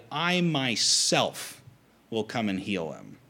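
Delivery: I MYSELF drawn out slowly; double emphatic. Acted. Preacher translating verse seven for the congregation, emphatic. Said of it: "responds with a double emphatic".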